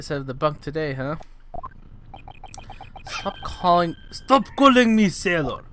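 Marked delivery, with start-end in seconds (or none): 3.1-5.6 yelling back, irritated; angry shout. Acted. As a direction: bark it at them, fed up. Sailor snaps at being called sailor.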